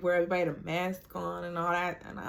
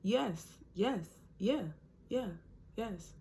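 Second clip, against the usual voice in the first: mock confused agreeing; 3 semitones higher, 6 dB quieter, slower than usual. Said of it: "I was literally just agreeing with him like".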